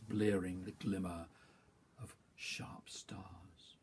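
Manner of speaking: slow, measured poetry reading; poem recital. Acted. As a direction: recite each image separately, with pauses between phrases. Reads second poem aloud.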